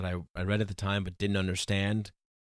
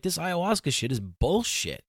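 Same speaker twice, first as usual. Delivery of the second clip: higher-pitched, fed-up retold rant; a pissed-off outburst, higher in pitch; retold angry outburst; 8 semitones higher than usual. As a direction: spit it out like you've had enough. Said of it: "And I was fucking pissed".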